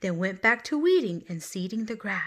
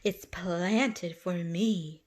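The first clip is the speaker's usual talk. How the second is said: beetle; much slower than usual. Acted. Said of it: "snapped the beetle".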